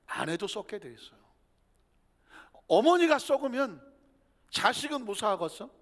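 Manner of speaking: ordinary talk, nothing marked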